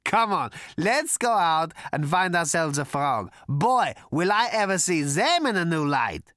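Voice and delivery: high, loud, manic character voice; rally everyone with wild glee; giddy excitement. A narrator's reading. Prack urges his visitors to hunt frogs, loudly excited.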